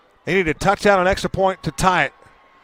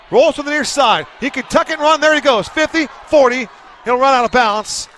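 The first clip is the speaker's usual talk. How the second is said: rising, higher scramble call; excited play-by-play; 4 semitones higher than usual. Real, not acted. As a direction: build the excitement as he runs. Quarterback scramble called live.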